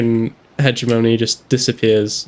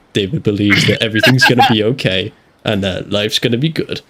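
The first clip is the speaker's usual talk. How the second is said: tries to go low, barely lower; attempted baritone; 3 semitones lower than usual. Shown as a demonstration. Friend trying a baritone voice on request. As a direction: push the voice down as far as it goes. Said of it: "Let's hear you go baritone".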